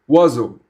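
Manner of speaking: Wazo said as WAH-zo, clear and falling; Wazo, two even syllables WAH-zo; French pronunciation. Shown as a demonstration. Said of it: "Wazo is pronounced Wazo".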